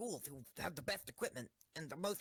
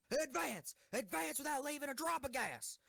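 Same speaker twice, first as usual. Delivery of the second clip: commanding call, pitched higher; battle cry; 7 semitones higher than usual. Acted. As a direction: order the charge with full conviction. Commander orders charge.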